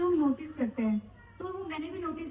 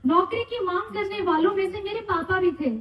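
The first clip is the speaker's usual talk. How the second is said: poem recitation; 4 semitones higher, 6 dB louder than usual. Acted. Recites own retirement poem for father.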